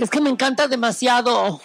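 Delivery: mocking gusher. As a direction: imitate someone overdoing their enthusiasm. Mocking people who overuse "demasiado.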